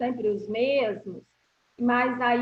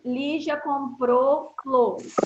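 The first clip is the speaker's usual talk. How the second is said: slow dictation; slower than usual. Shown as a demonstration. Teacher dictates slowly.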